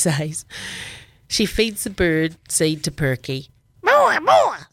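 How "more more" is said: very high, loud squawk; parrot squawk. Acted. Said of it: "squawks Perky".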